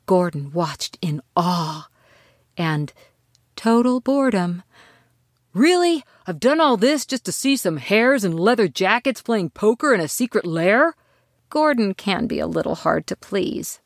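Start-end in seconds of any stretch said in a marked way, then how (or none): 5.5-10.9 exasperated. Acted. Gordon disappointed at hares.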